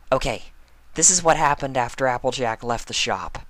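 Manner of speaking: high, quick, serious pony voice; earnest Pinkie. Acted. Pinkie confiding in Spike, high and earnest. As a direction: confide a big secret, high and fast.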